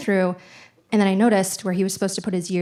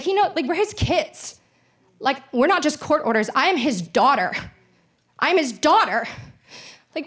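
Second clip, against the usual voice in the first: upset rant; 5 semitones higher than usual. Retold or imitated. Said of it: "I was so upset".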